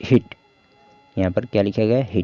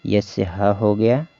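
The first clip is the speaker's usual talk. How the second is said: slow sounding out; slower than usual. Shown as a demonstration. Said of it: "hat means टोपी".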